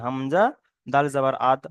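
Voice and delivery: "হামজা, দাল জাবার" then "আদ" as one joined syllable; joined sukun spelling. Shown as a demonstration. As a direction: spell it out, closing "আদ" on the দ. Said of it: "আগের অক্ষরের সঙ্গে মিলিয়ে পড়তে হয়". ("আদ" মিলিয়ে বানান করে পড়া)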